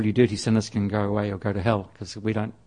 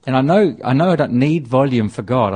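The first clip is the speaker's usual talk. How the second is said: raised voice, building in volume; louder and more insistent; getting louder; 6 dB louder than usual. Shown as a demonstration. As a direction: push the volume up as you go. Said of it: "I get louder and louder and louder".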